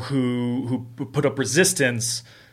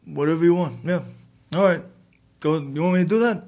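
mock hesitant agreement, pitched up, with pauses; lightly imitated puzzled go-along voice; going along, unsure; 5 semitones higher, faster than usual. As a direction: imitate a compliant but baffled actor. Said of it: "he was kind of like".

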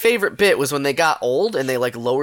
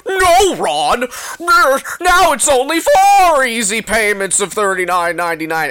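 loud, high cartoon announcer butting in; hammed-up, high cartoon interruption; weird cartoon voice; 7 semitones higher, 5 dB louder than usual. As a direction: blare it like a comic cartoon. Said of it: "cartoon voice would be like".

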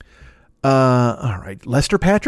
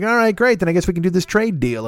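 Hessian guest voice; 5 semitones higher than usual. Retold or imitated. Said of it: "And he's like".

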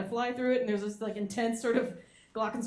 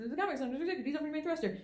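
softer, muttered repeat of the order; quieter repeat; 5 semitones higher, 6 dB quieter, faster than usual. Shown as a demonstration. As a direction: say it again under your breath.

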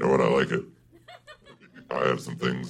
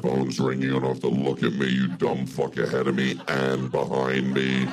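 feminine devil voice. Acted. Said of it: "devil voice".

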